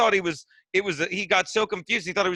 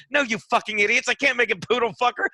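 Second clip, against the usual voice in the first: mild mock yell, pitched higher; retold yell; 4 semitones higher than usual. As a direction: imitate an exasperated man yelling, half-strength. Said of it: "the second he yells that at us".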